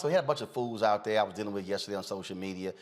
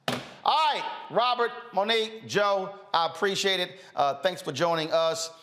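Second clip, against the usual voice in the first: higher, brighter host sign-off; show sign-off; 8 semitones higher than usual. Acted. Host thanking his panel, upbeat sign-off. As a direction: wrap the show up with energy.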